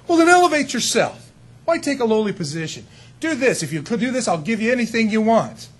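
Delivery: high, eager tempter's pitch, mildly played; smooth tempter. Preacher voicing the tempter offering Jesus anything, lightly hammed. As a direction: sell the temptation like a slick salesman.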